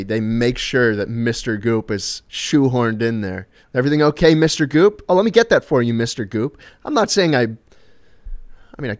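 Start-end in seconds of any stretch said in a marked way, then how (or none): 3.7-6.6 fawning entourage. Retold or imitated. Entourage catering to every whim, imitated solicitous tone. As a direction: lightly voice an over-attentive helper. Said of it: "every sentence they say to me".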